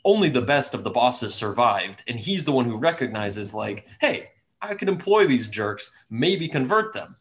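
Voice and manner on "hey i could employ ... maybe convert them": higher, scheming villain voice; scheming dragon voice. Acted. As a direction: plot aloud like a scheming villain. Dragon plans to recruit party.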